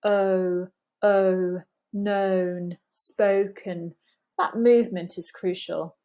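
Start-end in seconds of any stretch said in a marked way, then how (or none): 0.0-3.9 "Oh" starting neutral and closing rounded. Shown as a demonstration. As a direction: glide the vowel in "known" and "spoken" into rounded lips. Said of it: "move into a round shape".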